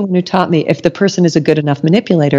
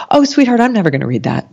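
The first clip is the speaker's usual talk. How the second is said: loving bluntness; 7 semitones higher, faster than usual. Retold or imitated. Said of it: "she said it so lovingly".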